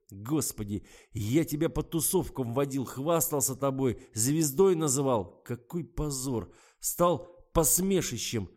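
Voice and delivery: furious rant. A narrator's reading. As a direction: pour out his humiliation in fury. Garik rants at his girlfriend.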